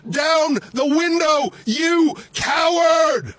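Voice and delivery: high, slow furious yell; slowed, furious shouted insult; angry shout. Real, not acted. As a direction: hurl the insult at them. Yelling at officers in car.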